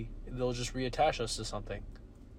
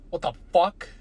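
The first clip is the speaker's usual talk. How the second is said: shocked wake-up; 5 semitones higher, 9 dB louder than usual. Pretend. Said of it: "You're like".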